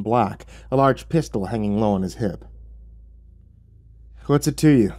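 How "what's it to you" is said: higher, mildly irritated retort; a little sour. Acted. Narrator woken by stranger in desert, a little sour. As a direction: toss it back with a touch of sourness. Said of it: "I said, a little sourly".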